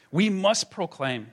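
rally the room with it; firm proclamation. Acted. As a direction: declare it like a rallying cry. Preacher's rallying call.

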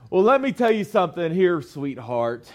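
mock-condescending lady, quick, then dropping on "sweetheart". Lady belittling the person trying to help her, condescending. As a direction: talk down to them, imitating a patronizing customer. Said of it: "It's very condescending".

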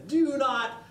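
high, loud wizard roar; Gandalf yelling. Retold or imitated. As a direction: thunder it down at the hobbit. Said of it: "Gandalf yells at him".

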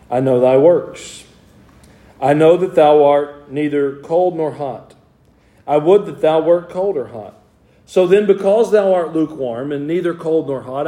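measured, solemn Bible reading; scripture reading. Acted. Preacher reading Corinthians to his church, solemn. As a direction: read the verses with weight.

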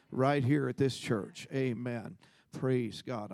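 emphatic preaching. Real, not acted. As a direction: drive the point home to the congregation. Preaches with rising force to congregation.

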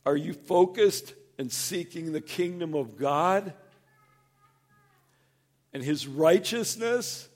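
a hint of God asking, steady and searching; God gently checking in. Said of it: "And I think".

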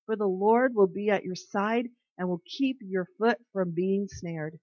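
steady, measured Bible reading; solemn reading of scripture. Acted. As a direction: read the verses like a devotional. Reads Proverbs aloud to listeners.

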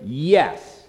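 firm YES with a decisive fall; emphatic yes. Shown as a demonstration. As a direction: answer "Yes" with no wiggle room. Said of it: "it's emphatically yes".

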